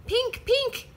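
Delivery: put-on high squeaky toddler shout. A narrator's reading. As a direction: shout it out like a tiny boy. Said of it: "shouted George".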